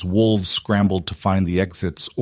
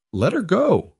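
deadly calm; 11 semitones higher than usual. A narrator's reading. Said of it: "his voice deadly calm".

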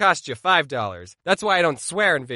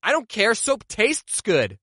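put-on defiant kid; 3 semitones higher, slower than usual. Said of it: "I said".

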